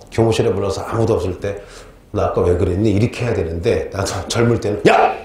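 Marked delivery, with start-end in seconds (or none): 2.1-2.9 low-pitched, gentle questioning; calm private reproof. Acted. Teacher to a student alone in the staff room, calm reproof. 4.9-5.1 acted scolding. Young teacher catching a student's mistake, acted angry scolding. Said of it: "혼내".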